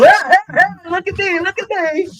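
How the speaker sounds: high, loud, whiny mock voice; mocking show-off voice. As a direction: mimic a showy attention-seeker. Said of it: "The blacks get to come in and go".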